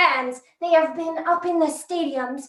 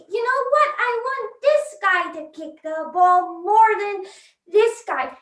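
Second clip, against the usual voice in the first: raised, opinionated fan voice; indignant fans; 5 semitones higher than usual. Acted. Fans telling the players who should kick, indignant. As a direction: argue it from the stands, higher at the start.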